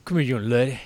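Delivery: a hint of a Southern twang, lightly put on; mock Southern accent. Co-host teasing the other, lightly putting on a Southern twang. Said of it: "You sound like a Hodge twin".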